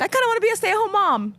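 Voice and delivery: dreamy quote. Retold or imitated. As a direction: put on a dreamy little voice. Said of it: "I'm like".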